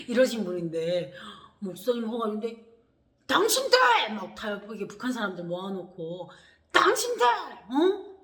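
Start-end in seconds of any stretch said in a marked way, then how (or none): 3.3-3.8 furious bark, much higher and louder; angry shout. Retold or imitated. Angry pastor yelling at the two defector women. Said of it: "목사님이 화가 나신 거예요". 6.7-8.2 angry shout. Retold or imitated. Angry pastor yelling at the two defector women. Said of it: "목사님이 화가 나신 거예요".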